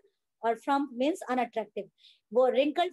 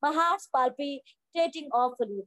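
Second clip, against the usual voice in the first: slow, worn-out complaint; a touch of breathless fatigue; exhausted; much slower than usual. Acted. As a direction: drag the words like a tired, anxious man. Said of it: "exhausted है, थका हुआ सा".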